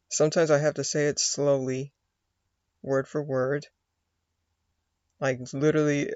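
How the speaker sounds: usual speaking voice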